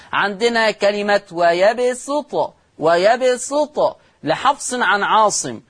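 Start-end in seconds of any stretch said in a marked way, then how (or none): 1.3-4.0 slow ويبسط said wa-yabsutu with a thin s; pure seen. Shown as a demonstration. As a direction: keep the s of ويبسط light, a plain seen. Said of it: "يقرأ بالسين الخالصة".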